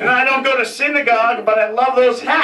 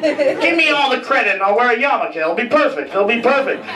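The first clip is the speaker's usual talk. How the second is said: mock proud reply; 2 semitones higher than usual. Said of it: "I'd be like".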